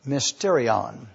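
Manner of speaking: careful slow teacher's say of "mysterion"; Greek word said slowly. Shown as a demonstration. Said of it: "the word is mysterion".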